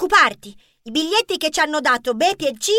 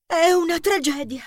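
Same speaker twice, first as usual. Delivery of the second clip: melodramatic lament; 3 semitones higher than usual. Acted. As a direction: bemoan it like a drama queen. Film star lamenting after her scream.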